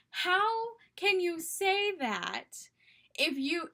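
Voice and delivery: high, drawn-out indignant outburst; mock scream. Retelling best friend confronting the liar, mock scream. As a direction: play the outraged friend confronting him. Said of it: "so that she could scream directly at".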